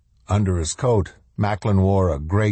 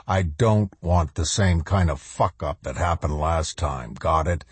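menacing colonel. Acted. Macklin low, slow commands.

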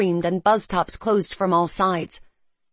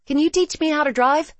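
eager; 9 semitones higher, 4 dB louder than usual. Acted. Eager request to learn driving.

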